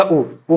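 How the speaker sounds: उ as a brief u each time; short vowel. Shown as a demonstration. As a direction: keep each उ to one short beat. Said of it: "ये हमारा ह्रस्व".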